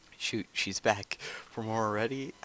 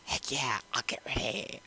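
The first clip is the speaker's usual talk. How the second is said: excitable; 4 semitones higher than usual. Pretend. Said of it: "I'm gonna be excitable and be like".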